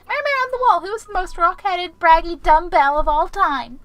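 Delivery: high, loud sing-song taunt; high mocking storybook question; high teasing mirror voice. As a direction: tease him like a fairy-tale mirror. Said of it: "mocking mirror question".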